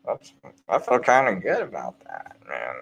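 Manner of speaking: a hint of mellow satisfaction; content and easy. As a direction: savour it quietly, pleased with yourself. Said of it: "someone can call me Uncle Tom and be like".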